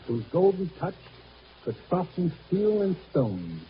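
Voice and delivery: slow, grand recitation; theatrical reading of Shakespeare; reciting Shakespeare. Acted. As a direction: declaim the verse slowly. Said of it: "Shakespeare once said".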